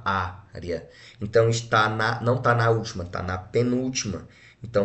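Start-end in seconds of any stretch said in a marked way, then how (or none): 0.1-0.9 "área" split into á and ria; separado em sílabas. Shown as a demonstration. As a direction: pause after the "á" of "área". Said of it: "eu separo". ("área" separado, á e depois ria)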